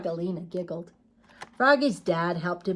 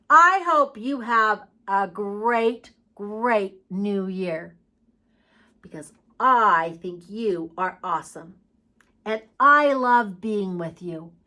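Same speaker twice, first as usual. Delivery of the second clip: warm send-off. Real, not acted. Teacher's warm send-off to children.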